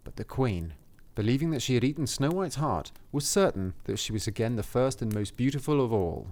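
measured fairy-tale reading; story narration. A narrator's reading. Reading the cottage description to a co-host, story narration. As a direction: read it aloud as a storybook.

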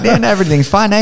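high mock New Zealand accent; exaggerated kiwi bloke accent; broad kiwi accent. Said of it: "they're just like".

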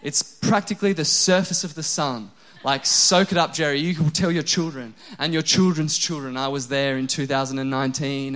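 telling Jerry this heatwave is historic, mock-grand and loud; mock-grand teasing. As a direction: tease him like it's history being made. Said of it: "I just thought".

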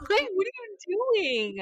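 high, incredulous mock gasp at a kid; shocked retelling. Telling a friend about the rude kid, high incredulous quote. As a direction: act out your jaw dropping at the girl. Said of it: "but I was like".

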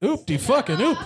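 laughing mock cheer; gleeful cheer. Real, not acted. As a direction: crow it out with a laugh. Cheering the play on screen.

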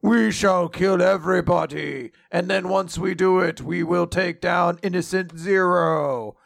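lightly voiced menacing giant; hammy giant's threat; giant villain. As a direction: declaim it like a mock villain, drawing out the ending. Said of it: "the Giants are there and they're like".

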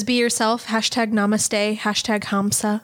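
mock inspirational. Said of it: "She says".

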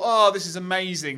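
high, loud imitation of gushing; mock delight. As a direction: exclaim like a self-congratulating filmmaker. Imagines self-satisfied filmmakers' delight.

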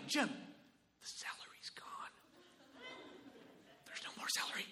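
panicked whisper. Retold or imitated. Guest urgently whispering to Jim about the celery. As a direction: hiss the secret to Jim.

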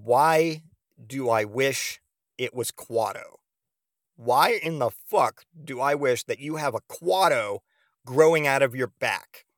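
slow, spaced-out mock disbelief; incredulous questioning. Boyfriend asking why he'd wish that, incredulous. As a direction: question her word by word, baffled.

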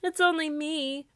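high, small scarecrow voice. A narrator's reading. Scarecrow answers Santa from the dark, high voice.

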